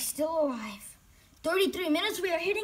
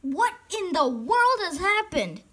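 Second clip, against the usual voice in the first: loud, high-pitched disbelief; shocked outburst; 7 semitones higher, 8 dB louder than usual. Real, not acted. Player stunned by the game, loud shocked cry.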